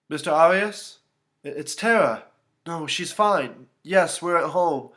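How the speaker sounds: put-on keyed-up babysitter on the phone; anxious babysitter. A narrator's reading. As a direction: report in to a worried parent.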